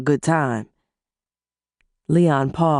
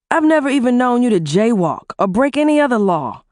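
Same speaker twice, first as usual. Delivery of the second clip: husband's voice, higher and heated; angry husband; 4 semitones higher than usual. Acted. Husband berating his wife over the phone, angry. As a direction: scold her hard.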